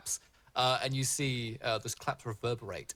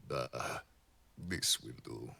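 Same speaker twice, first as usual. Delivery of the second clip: party bugbear; slower than usual. Acted. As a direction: announce yourself like a showman. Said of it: "a bugbear stepping out".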